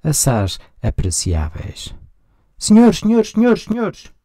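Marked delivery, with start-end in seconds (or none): 2.6-4.1 high, loud calls of senhores, each one different; varied calls of senhores. Shown as a demonstration. Lecturer demonstrating how senhores sounds different at each call. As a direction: call senhores loudly up high, changing the tune each time. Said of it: "diversas vezes a palavra senhores".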